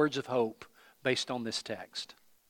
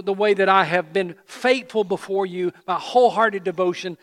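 impassioned preaching; 5 semitones higher, 7 dB louder than usual. Acted. Preacher builds to impassioned plea.

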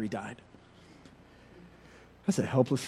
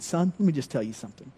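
warning mom; 3 semitones higher than usual. Retold or imitated. Mother warning her son after school, mildly stern. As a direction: warn your son in a lightly voiced mom voice. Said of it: "she said".

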